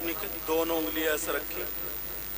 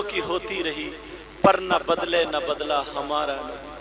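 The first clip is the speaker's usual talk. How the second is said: recited naat verse. Acted. Recites a devotional poem.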